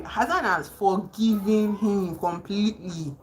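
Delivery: ordinary talk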